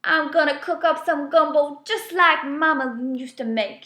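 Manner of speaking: loud, fired-up declaration; furious cry. A narrator's reading. Angry gator vowing gumbo to the critters, loud and fired up. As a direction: burst out with hot determination. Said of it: "he cries".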